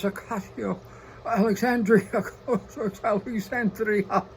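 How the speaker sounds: rolling the name in a hammed-up Spanish accent; mock Latino accent. Mocking a politician's Latino accent on her name. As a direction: draw out Alexandria like a put-on Spanish accent. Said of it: "slips into Latino dialect".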